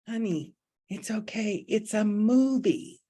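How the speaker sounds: put-on calm a frightened child; soothing. Holy Spirit soothing the ego.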